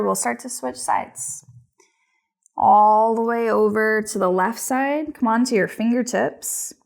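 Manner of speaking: yoga instruction. Acted. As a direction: guide each breath unhurriedly, with long pauses. Leads a yoga practice.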